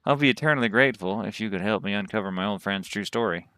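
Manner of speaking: lightly voiced Texas cowboy; courteous cowboy asking a favor; cowboy accent. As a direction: slip into a Southern cowboy accent. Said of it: "that accent came to me".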